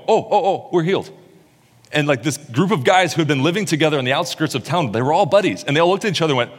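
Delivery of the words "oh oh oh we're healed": high, excited disbelief; excited healed men; amazed joy. Retold or imitated. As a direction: discover the healing with a gasp of joy. Men discover their healing.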